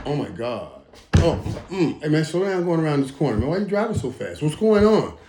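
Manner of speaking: mock-panicked passenger, fast; nervous passenger. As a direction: rattle it off like a scared backseat rider. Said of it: "when somebody's driving me".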